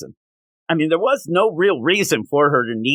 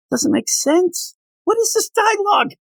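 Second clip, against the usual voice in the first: exasperated outcry. Real, not acted. Reviewer shouting at the comic's dialogue, exasperated. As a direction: yell it at the page in frustration. Ranting about bad dialogue.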